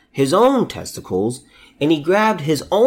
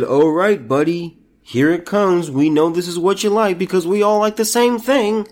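higher, put-on sleazy coaxing voice; mock them as cooing captors; mocking the accused men; 4 semitones higher than usual. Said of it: "and they said".

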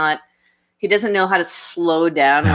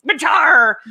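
louder, higher shout of the name; exclaimed curse; 8 semitones higher, 6 dB louder than usual. Retold or imitated. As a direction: blurt it like a swear word. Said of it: "I'm like".

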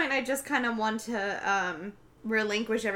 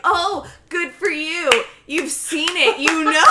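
mock sarcastic; 6 semitones higher, 7 dB louder, slower than usual. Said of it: "I'm like".

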